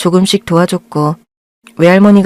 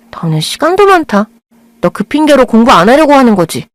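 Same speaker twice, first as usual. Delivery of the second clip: sarcastic jab; 4 semitones higher than usual. Acted. Girl teasing sarcastically.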